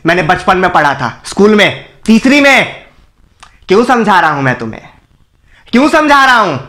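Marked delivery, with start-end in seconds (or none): 3.7-4.8 quick, weary reproach; exasperated question. Acted. Exasperated at unresponsive crowd. 5.7-6.6 higher, angrier self-reproach; exasperated outburst. Acted. Exasperation boils over.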